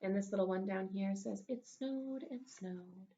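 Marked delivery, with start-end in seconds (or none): 1.5-3.1 put-on small child voice. Voicing a small child's line.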